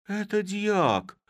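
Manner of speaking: slow, high cry of amazement; stunned recognition; astonished. A narrator's reading. Chub seeing the deacon in the sack, high and slow in astonishment. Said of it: "изумившийся более всех Чуб".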